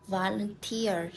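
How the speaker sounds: "volunteer" with the beat on TEER; stress on final syllable. Shown as a demonstration. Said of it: "then we stress in the final syllable".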